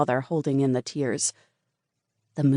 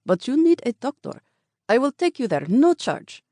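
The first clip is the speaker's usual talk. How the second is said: high, louder kind insistence; insistent cab driver; 10 semitones higher, 3 dB louder than usual. A narrator's reading. Cab driver insisting on taking her to a doctor. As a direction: offer it free, urging her.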